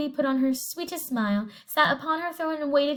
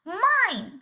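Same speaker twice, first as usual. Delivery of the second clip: squawk; 5 semitones higher than usual. Acted. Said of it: "squawked the parrot".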